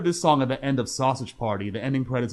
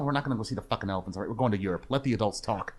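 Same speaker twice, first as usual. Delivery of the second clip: father snapping; 3 dB quieter, faster than usual. Retold or imitated. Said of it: "curses out the daughter".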